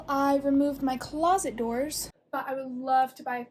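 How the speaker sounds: talking over gusting wind; speaking outdoors into the wind; wind in the face. Real, not acted. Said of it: "sorry, it's really windy outside".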